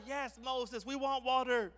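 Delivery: high, exasperated crowd shout; crowd reply. Acted. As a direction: call back as an impatient crowd. Exasperated crowd answers Moses.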